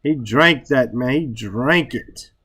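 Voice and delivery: DRANK leaned on and stretched; emphatic stress. Shown as a demonstration. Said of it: "to emphasize".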